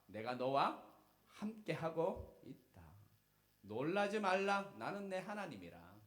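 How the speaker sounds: loud, high, slow proclamation; preaching at full force. Acted. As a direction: thunder the promise out slowly. (크고 느리게 선포하는 설교)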